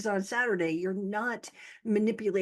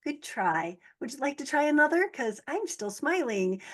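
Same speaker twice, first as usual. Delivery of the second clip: mock taunting; 6 semitones higher than usual. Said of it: "And you're like".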